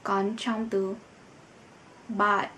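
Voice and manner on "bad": Bad ending in a hard, breathy t; final d as t. Shown as a demonstration. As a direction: say Bad with the d at the end spoken as t. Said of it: "nó lại phát âm thành T". (phát âm Bad, d cuối thành t)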